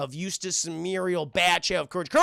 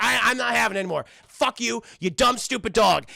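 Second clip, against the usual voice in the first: higher, loud mock anger; exasperated retold rant; fed-up scolding; 3 semitones higher, 5 dB louder than usual. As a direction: act out a grumpy owner losing patience. Owner angrily berates dog.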